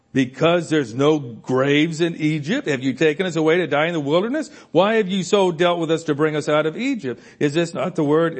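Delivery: the people grumbling at Moses; whining Israelites. Retold or imitated. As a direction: whine it at God like a trapped crowd. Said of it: "they whine against God".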